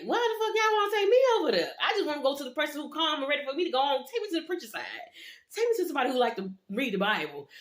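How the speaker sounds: high, squealing exaggerated protest; mock outraged protest. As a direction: ham up the complaint about being sent there. Her own retold protest.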